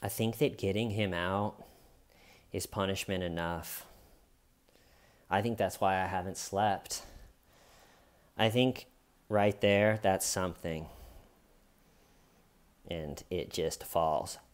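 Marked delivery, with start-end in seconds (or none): 0.0-10.9 soft, subdued retelling of her words; hushed, drained confession; quiet voice. Retold or imitated. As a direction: say it quietly, worn out. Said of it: "in just a quiet voice".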